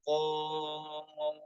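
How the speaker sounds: letters held medium length; medium mad recitation. Shown as a demonstration. Teacher showing the tawasud length. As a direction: shorter hold on each letter. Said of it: "boleh juga dibaca tawasud".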